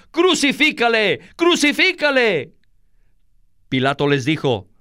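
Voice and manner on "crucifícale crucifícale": high-pitched clamour for death; crowd crying out. A narrator's reading. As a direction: cry it out as a demanding mob. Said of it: "dieron voces". (gritos agudos de la turba)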